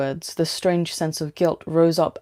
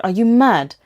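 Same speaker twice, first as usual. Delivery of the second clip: alarmed shout; 5 semitones higher, 6 dB louder than usual. A narrator's reading. Alarmed at reckless driving.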